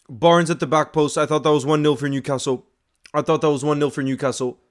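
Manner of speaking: reliving the chance out loud; excited. Real, not acted. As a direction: still buzzing from the near goal. Still reacting to the chance.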